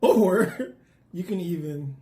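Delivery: slow delivery broken by a laugh. Real, not acted. Presenter listing the fruit's dangers to viewers, slowly, with a laugh. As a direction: crack up partway through the warning.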